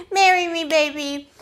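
high, loud mock proposal; eager proposal. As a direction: blurt it out like a giddy suitor.

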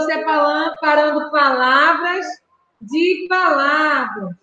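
slow, each syllable spelled out; over enunciating. Shown as a demonstration. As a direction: lay out the words slowly for children. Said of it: "teacher stresses the key word".

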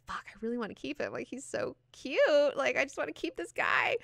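smitten pleading. Acted. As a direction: coo with longing over someone adorable. Acted longing to keep cute man.

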